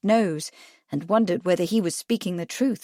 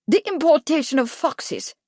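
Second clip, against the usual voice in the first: "The importation of foxes!" exclaimed much higher and louder; astonished exclamation; 8 semitones higher, 4 dB louder than usual. Acted. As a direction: burst out in disbelief at the idea. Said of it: "Kipling exclaimed".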